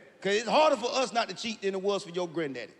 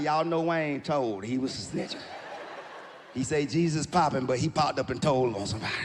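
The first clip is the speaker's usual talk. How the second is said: a hint of an old grandma telling on him; grandma gossiping; 8 semitones lower than usual. Grandma at a family function, lightly voiced and accusing.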